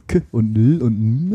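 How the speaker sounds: "K und L und N" as bare consonant sounds; phonetic letter sounds. Shown as a demonstration. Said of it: "Kinder so Buchstaben beibringt".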